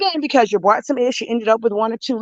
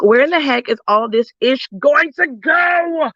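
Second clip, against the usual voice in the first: exasperated shout. Retold or imitated. Overwhelmed by clutter, yelling to herself.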